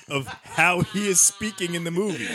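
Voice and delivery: high, slow put-on Irish lilt; mock Irish accent. Podcaster mocking the leprechaun's movie Irish accent. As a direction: camp up an Irish brogue for a laugh. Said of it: "most offensive Irish accent".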